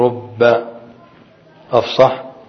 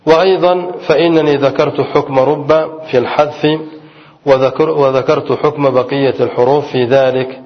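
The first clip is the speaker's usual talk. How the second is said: reading a text aloud. Acted. Teacher reads the quoted grammar text to students, in recitation style. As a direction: read the old commentary aloud to the class.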